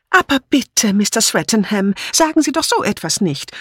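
high, plaintive pleading; tearful, whiny. A narrator's reading. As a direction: beg him in a whimpering voice. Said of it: "rief Dora Banner weinerlich".

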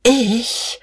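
high, stretched question; drawn out. A narrator's reading. Guste, deeply unsettled, asks in a high drawl. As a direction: stretch the single word out, high. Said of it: "fragte sie gedehnt".

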